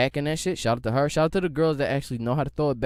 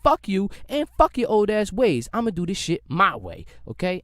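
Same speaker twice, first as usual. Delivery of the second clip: defiant youth; 5 semitones higher, 3 dB louder than usual. Retold or imitated. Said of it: "we like".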